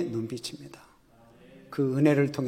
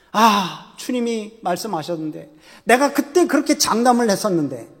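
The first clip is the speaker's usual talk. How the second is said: Peter's lament; 5 semitones higher, 4 dB louder than usual. Acted. Peter remembering Jesus' words, anguished lament. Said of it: "심히 통곡하고 우는 거예요".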